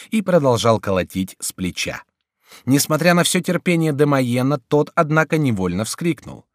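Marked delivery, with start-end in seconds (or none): none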